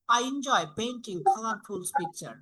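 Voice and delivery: slow, with the voice falling at the end on picture; falling intonation. Shown as a demonstration. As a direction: read it slowly and let it drop. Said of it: "এটা একটা statement down". (ধীরে, শেষে picture-এ গলা নামানো)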